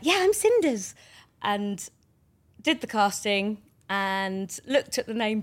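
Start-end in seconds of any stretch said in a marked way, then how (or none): 0.0-0.9 high, bright Cinderella play voice; excited. Retold or imitated. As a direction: squeal it like a thrilled child. Pretending to be Cinderella.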